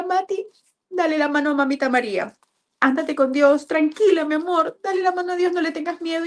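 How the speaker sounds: put-on high-pitched, pleading reassurance to a dying child; tearful farewell. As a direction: soothe your child while close to tears. Mother retells farewell to dying daughter.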